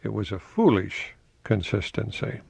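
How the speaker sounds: foolish leaned on with a lift; stress on foolish. Shown as a demonstration. Host explaining the quote, stressing foolish. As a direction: point out the word foolish by stressing it. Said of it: "Now notice it wasn't a consistency".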